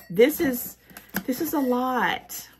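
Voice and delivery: halting, with searching pauses; lost for words. Real, not acted. Gift receiver thanking a friend, touched and lost for words. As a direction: stall and restart, genuinely touched. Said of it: "this is me being a loss for words".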